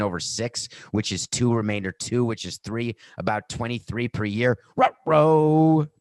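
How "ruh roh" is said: Scooby ruh-roh. Acted. Cartoon uh-oh exclamation.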